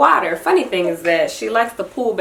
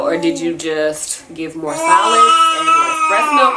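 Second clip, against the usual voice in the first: fighting back tears over her milk; on the verge of tears; 8 semitones higher, 5 dB louder than usual. Real, not acted. Mother to viewers, close to tears about her milk supply. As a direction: voice rising, close to crying.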